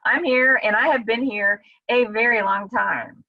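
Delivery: lightly voiced, knocking on heaven's door; impatient call to God. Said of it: "It's like".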